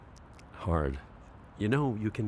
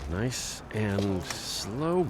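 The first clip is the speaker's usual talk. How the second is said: slow and quiet; 5 semitones lower, 4 dB quieter, much slower than usual. Acted. Easing wheelchair down a ramp.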